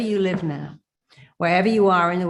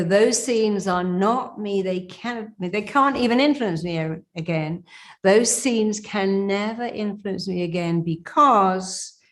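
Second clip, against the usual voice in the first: powerful affirmation; 2 semitones higher than usual. Shown as a demonstration. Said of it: "Do it with power and conviction".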